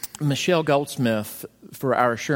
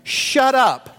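much higher, louder exasperated shout; mock snap; 12 semitones higher, 6 dB louder than usual. Exposed mom loses patience with her child, a loud mock shout. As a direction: blurt it out, fed up. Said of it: "the mom feels like saying".

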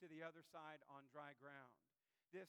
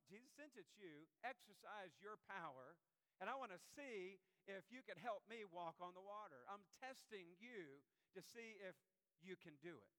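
smug pride; 3 semitones higher than usual. Retold or imitated. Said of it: "Or a little smugness?".

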